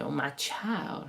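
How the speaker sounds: put-on Southern US accent, breathy and hushed. Quoting how the speaker's mother would speak about her child, in a southern us accent. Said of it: "She's from the south of America".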